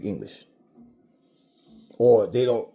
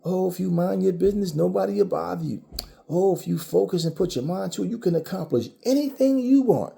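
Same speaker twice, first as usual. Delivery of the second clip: higher, lightly voiced preachy parent; mock parent advice; 6 semitones higher than usual. Mocking what parents tell their kids, higher and sing-song. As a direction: parody a parent's rosy advice. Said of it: "Your parents be telling you that".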